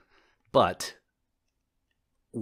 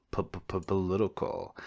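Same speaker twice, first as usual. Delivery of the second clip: P-p-p-political with the P repeated, slow and softer; playful stutter; 2 semitones lower, 6 dB quieter, slower than usual. Pretend. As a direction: stammer the P in P-p-p-political on purpose. Stuttering on the word.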